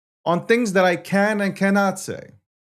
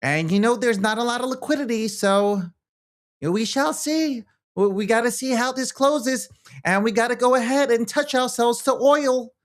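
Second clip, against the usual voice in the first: higher, mock Landy voice, hammed-up; squeaky mock co-host voice, higher than his own; Landy impression; 8 semitones higher than usual. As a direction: imitate Landy doing a market wrap. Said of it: "as Landy's gonna say".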